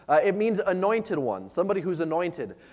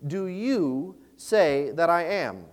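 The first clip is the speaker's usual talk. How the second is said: solemn slow question; much slower than usual. Acted. Jesus's question read solemnly.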